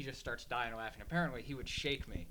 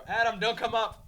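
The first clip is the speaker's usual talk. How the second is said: mock shout from upstairs, higher and louder; calling out; 9 semitones higher, 11 dB louder than usual. Friends yell down the stairs at Adam, a playful shout.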